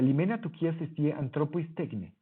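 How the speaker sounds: recited slowly in ancient Greek; Greek proverb read aloud. Shown as a demonstration. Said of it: "Ahí lo tienen". (recitar despacio en griego antiguo)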